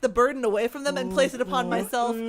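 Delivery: mock heroic sacrifice; mock noble. Claiming the gelato burden, laughing grandly.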